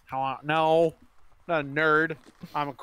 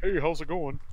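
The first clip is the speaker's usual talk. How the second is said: salesman greeting. Acted. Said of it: "this does not sound like a hacker".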